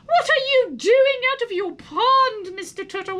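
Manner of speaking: put-on high, sweet pitying girl voice; girl talking down to a turtle; sympathetic girl. A narrator's reading. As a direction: coo with a sympathetic smile. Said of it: "with a sympathetic smile".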